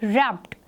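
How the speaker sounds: रैप्ड starting straight on r; teacher models wrapped; silent w. Shown as a demonstration. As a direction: say रैप्ड with no w sound. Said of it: "आर से बोलना शुरू करेंगे".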